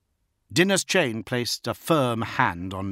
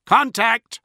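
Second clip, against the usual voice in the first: higher, louder alarm; crying out; 14 semitones higher, 9 dB louder than usual. A narrator's reading. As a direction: call out the alarm. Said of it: "the tracking officer cried".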